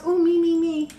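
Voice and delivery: high, playful me me me; eager mock volunteer. Tarot reader playfully answering her own call, eager. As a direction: pretend to raise your hand eagerly.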